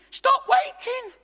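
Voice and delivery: high, loud, drawn-out shout; sudden big shout from the pulpit; shouted rebuke. Acted. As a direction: yell it as an exasperated command. Answers his acted waiting prayer.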